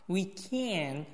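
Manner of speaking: "can" drawn out and emphasized; stress on CAN. Shown as a demonstration. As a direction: lean hard on the word "can". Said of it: "这个can声音一定要重". (重读"can")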